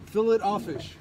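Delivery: "fillet offish" said as fill-it off-fish; "fillet offish" with a hard T and "offish". Acted. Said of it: "the filet o fish?".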